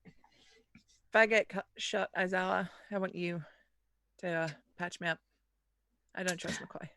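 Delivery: low, very soft murmur; hushed confiding. Acted. Crew member quietly confiding distrust of McCoy, hushed. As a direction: speak under the breath, low and private.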